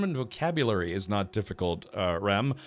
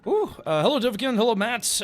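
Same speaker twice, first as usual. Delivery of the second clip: high, bright, upbeat hello; excited greeting; 10 semitones higher, 4 dB louder than usual. Real, not acted.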